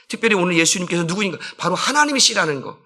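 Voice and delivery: ordinary talk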